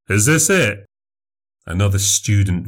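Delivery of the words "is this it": mocking heckle. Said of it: "one of the rugby guys said".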